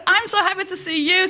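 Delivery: high-pitched, eager greeting; gushing reply. Acted. Greeting her best friend back at the station, gushing. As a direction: return the joy with bubbly enthusiasm.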